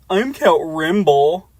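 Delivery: vampire count. Acted. Vampire introducing himself.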